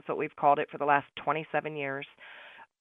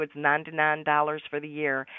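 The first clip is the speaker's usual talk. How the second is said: hint of Southern accent. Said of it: "she's got that Southern accent".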